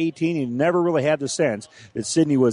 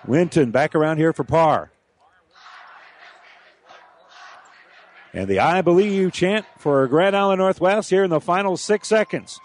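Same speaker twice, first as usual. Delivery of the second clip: play-by-play. Acted. Live play-by-play call.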